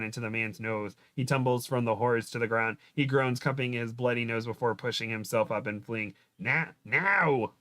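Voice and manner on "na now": higher British-accented yell, badly faked; attempted British accent. A narrator's reading. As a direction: have a shaky go at a British "now". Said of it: "how to do that in a British accent".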